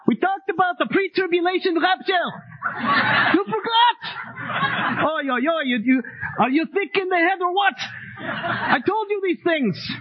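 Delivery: mock Jewish accent, high and exasperated; hammed-up Jewish accent scolding the Thessalonians; Paul scolding in a Jewish accent, high pitched. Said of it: "in his Jewish accent".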